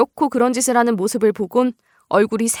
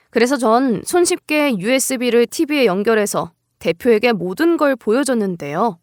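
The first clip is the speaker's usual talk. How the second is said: usual speaking voice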